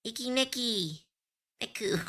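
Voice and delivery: drowsy, half asleep mumble; sleepy, barely awake; nodding off. Real, not acted. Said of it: "I'm just half asleep".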